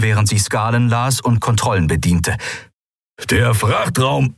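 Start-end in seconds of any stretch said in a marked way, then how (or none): 3.3-4.3 langsame, hohe Figurenstimme; Keru, gefasst und langsam; Keru spricht. Acted. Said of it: "begann Keru". (Keru meldet die Lage)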